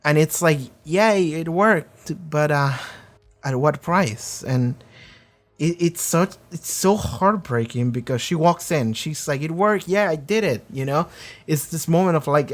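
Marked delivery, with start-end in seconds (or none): 0.8-4.4 bittersweet cheer. Retold or imitated. Jinx falling after the blast. 9.4-10.7 put-on proud child. Jinx walks in proud.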